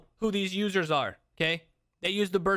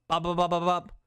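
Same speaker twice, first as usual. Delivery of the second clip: quick string of popping "bop" shots; imitated pistol shots. Streamer shows chat pulling out the pistol, imitated quick shots. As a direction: pop off rounds in a quick burst.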